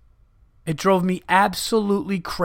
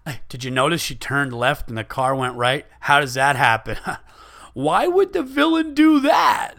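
mock nerdy guy; 2 semitones lower than usual. Mocking the nerdy moviegoer's comments.

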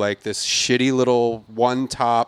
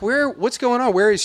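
impatient; 11 semitones higher than usual. Retold or imitated. Impatient at the hostess stand.

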